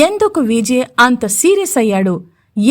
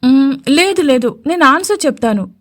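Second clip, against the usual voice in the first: whining; 2 semitones higher than usual. Acted. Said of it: "అని గునుస్తూ అంది".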